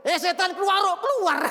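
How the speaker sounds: high, loud command to the demon; shouted rebuke. Retold or imitated. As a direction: bark it at the spirit. Rebuking demon loudly, retold. (bentakan keras mengusir setan)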